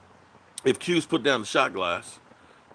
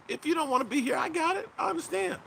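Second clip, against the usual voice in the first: mock understanding; 13 semitones higher, 4 dB quieter than usual. Mock sympathy to quitters.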